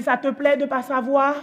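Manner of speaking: slow, mildly mocking question; imitated child's cool provocation; son's taunt. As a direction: needle her slowly, without raising the voice. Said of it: "Il me dit".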